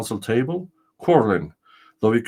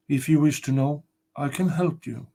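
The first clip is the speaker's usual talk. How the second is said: higher, solemn ghostly spirit; castle spirit; 5 semitones higher than usual. Acted. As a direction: announce yourself as the ancient spirit.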